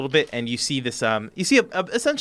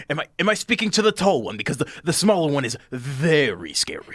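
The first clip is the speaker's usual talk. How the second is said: timid halfling voice; 3 semitones higher, 3 dB louder than usual. Acted. Frightened halfling behind door.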